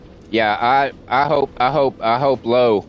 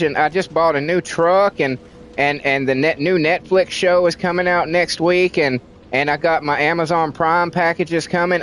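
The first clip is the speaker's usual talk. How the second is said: mock whiny complacent citizen, higher; whiny excuses; 4 semitones higher than usual. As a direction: whine out the lazy excuses.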